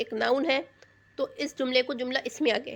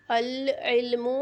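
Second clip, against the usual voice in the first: very slow, each syllable stretched; drawn out; much slower than usual. Shown as a demonstration. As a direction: say it slowly as if writing it down. Teacher dictates the example while writing. (لکھواتے ہوئے، کھینچ کر آہستہ)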